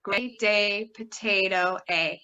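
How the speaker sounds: keyword, new word, then the vowel "A"; matching vowel drill. Shown as a demonstration. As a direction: link the long "A" in "Gray day, potato". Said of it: "say the color with the keyword".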